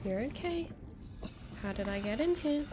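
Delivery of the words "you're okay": forced calm before panic. Real, not acted. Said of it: "Don't panic, don't panic".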